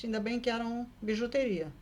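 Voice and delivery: usual speaking voice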